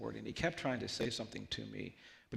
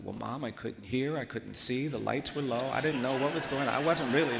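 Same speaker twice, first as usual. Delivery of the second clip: mock boyish pleading, building louder; protesting excuses; 5 dB louder than usual. Boy arguing his case to mom, protesting. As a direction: pile up excuses, getting louder as you go.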